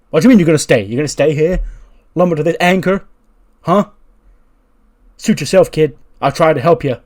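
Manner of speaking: loud, high, incredulous yelling; outraged shout. Acted. Uncle furious that his nephew stays: outraged shout. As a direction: shout in disbelief, then storm off.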